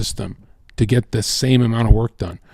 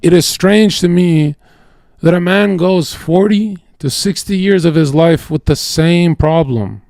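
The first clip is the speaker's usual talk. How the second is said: put-on old American accent; 5 semitones higher than usual. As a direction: quote it measured, in an old cool American accent. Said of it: "in, like, old cool American accent".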